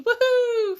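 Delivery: high, loud drawn-out cheer; celebratory whoop. Real, not acted. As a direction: whoop with real delight. Celebrating baby asleep, brief freedom.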